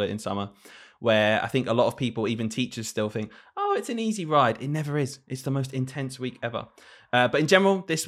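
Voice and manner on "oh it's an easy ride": mock dismissive. Mocking others' view.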